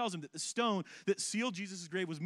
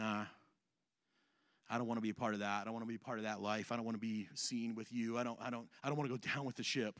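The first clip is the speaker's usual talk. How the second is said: low, soft, offhand brush-off; a hint of a shrugging deserter; dismissive mutter; 8 semitones lower, 5 dB quieter, faster than usual. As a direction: toss it away like you want no part. Voicing Jesus walking away.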